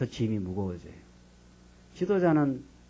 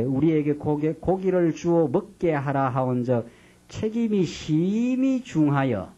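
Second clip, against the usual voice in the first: plain scripture reading; 2 semitones higher, slower than usual. Acted. Reads verse thirteen-fourteen.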